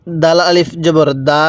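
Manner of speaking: slow spelled reading with the long আ of দা held; one-alif stretch. Shown as a demonstration. Teacher to students, reading drill: slow stretched দা. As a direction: draw out দা for one alif, slowly. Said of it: "কেন এখানে এক আলিফ টান দিব?".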